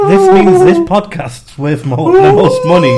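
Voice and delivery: very high loud squeal; squeaky excited. Pretend. Mock hyping podcast value.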